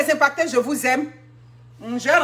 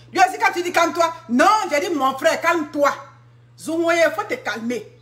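agitated retelling; 5 semitones higher than usual. Retold or imitated. A woman recounts calming her brother, with agitated retelling. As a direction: get worked up telling it.

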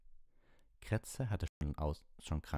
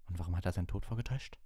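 upset question; 3 semitones higher, 3 dB louder, much faster than usual. Acted. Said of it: "fragte er aufgebracht".

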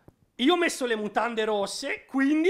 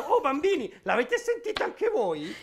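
a touch of mimicking her sing-song; mocking quote. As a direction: parrot her words back teasingly. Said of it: "Hai detto".

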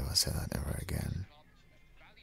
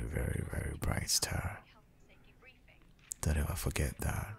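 soft whisper, leaning in close; tender whisper; 3 dB quieter than usual. Acted. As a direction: make it a secret just for her. Tender compliment to partner.

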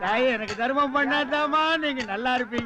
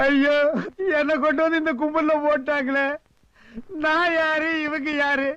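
mock wailing lament. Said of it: "அழுவாதப்பா".

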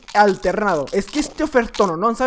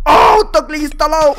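slower, loud, higher wail, voice cracking; anguished shout; 5 semitones higher, 8 dB louder than usual. Real, not acted. Gamer wailing to viewers as his cheat fails, loud crying shout. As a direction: howl it out in despair as everything collapses. Repeats it as he loses.

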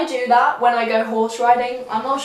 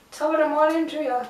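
higher, quick lilting greeting; singsong; 4 semitones higher, faster than usual. Pretend. Vlogger greets viewers playfully, singsong. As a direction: lilt it like a little tune. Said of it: "Sound like I was singing".

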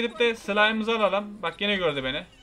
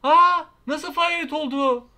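higher, louder, drawn out in disbelief; stunned at what just happened; shocked; 6 semitones higher, 5 dB louder, slower than usual. Real, not acted. Player shocked by his sudden fail, higher and slow.

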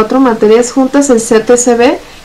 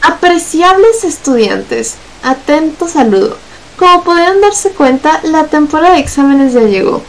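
reading aloud; 4 semitones higher than usual. Acted. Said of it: "te leo mi puto trabajo".

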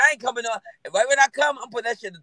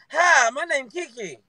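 imitating Keke; 2 semitones higher, much slower than usual. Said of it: "that's how she met me".

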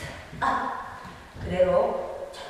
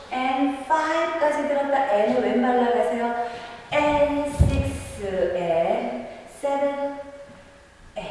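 barked order; 5 semitones higher, slower than usual. Acted. Dance teacher calling counts.

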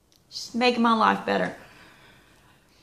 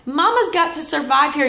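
mama survival cry; 6 semitones higher, 5 dB louder than usual. Real, not acted. Mom defending herself.

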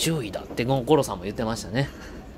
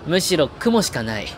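mock grandiose; 4 semitones higher, slower than usual. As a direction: present the grey sky like a treasure. Mock grand presentation of cloudy sky.

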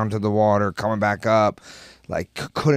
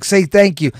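high, loud indignant demand; exasperated retold scolding; retold anger; 8 semitones higher, 7 dB louder than usual. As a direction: demand it, re-enacting your annoyance. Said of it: "Like, I was so mad".

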